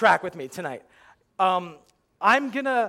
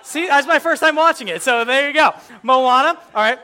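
loud, high flustered correction; hurriedly covering a slip on stage; 7 semitones higher, 11 dB louder than usual. Real, not acted. Comic correcting a mispronounced title to the crowd, flustered and loud.

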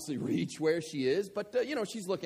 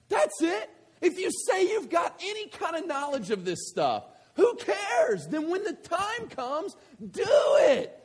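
much higher, louder preaching voice; full-force preaching; 13 semitones higher, 8 dB louder, slower than usual. Acted. Preacher pressing his point on the congregation, forceful preaching. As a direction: drive the point home to the congregation.

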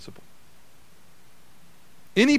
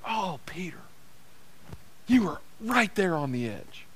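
gentle disappointment; 7 dB quieter than usual. Acted. Jesus lamenting Peter's near miss.

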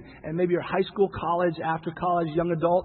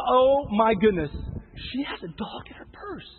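gushing fan; 5 semitones higher than usual. Retold or imitated. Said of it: "people are like".

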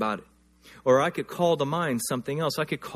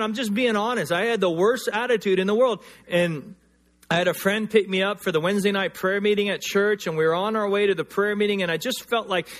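ordinary delivery

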